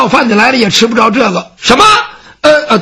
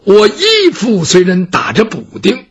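slow, proud recital of principles; lofty scholar declaiming; slower than usual. Acted. Gongsun Ce lectures the servant on his pride, slow declaiming. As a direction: declaim it like a classical maxim.

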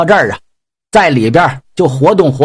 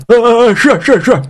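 a bit higher, hurried yes-yes; eager meek pig demon; 6 semitones higher than usual. Acted. Pig demon eagerly agrees to obey Yang Jian. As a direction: nod along eagerly, scared.

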